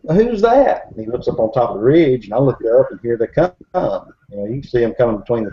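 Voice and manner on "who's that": high, startled mock question; alarmed companion. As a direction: imitate a spooked man asking, pitch jumping up. Startled companion asks who is there.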